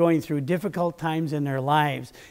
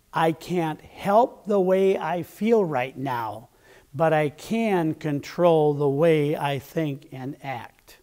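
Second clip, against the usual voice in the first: calm affirmation; slower than usual. Shown as a demonstration. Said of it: "This is a beautiful patience affirmation".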